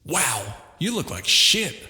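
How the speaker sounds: a British mate ribbing a friend, slow and light. A narrator's reading. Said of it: "they continued".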